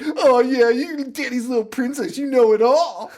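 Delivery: high, mocking imitation of her yelling; toned-down mock scream. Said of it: "She's screaming at the top".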